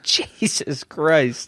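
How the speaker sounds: slow, soft, drawn-out disbelief; stunned mutter. Retold or imitated. Reacting to a palm full of shrooms, slow and soft. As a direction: breathe it out slowly, stunned. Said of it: "And I'm just like".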